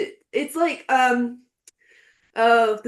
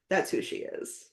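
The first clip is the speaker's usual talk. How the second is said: soft whispered repeat, much quieter; 2 semitones lower, 7 dB quieter than usual. Shown as a demonstration. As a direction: breathe it out as a secret.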